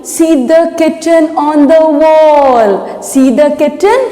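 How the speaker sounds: slow, measured poem recital; recitation for repeating. Shown as a demonstration. Teacher to students learning a poem, slow recitation. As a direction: recite it line by line for pupils to copy. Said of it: "Repeat after me".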